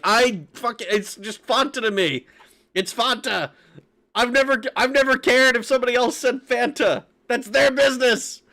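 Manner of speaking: ranting back at chat, each line climbing; exasperated rant. Retold or imitated. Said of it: "And I'm like".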